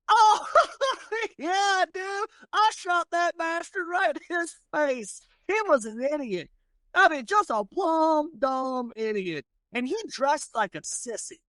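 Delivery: high, laughing brag; boasting gunslinger. Acted. Franklin Thomas gloating to the old man, high with a laugh. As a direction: cackle and gloat about the kill.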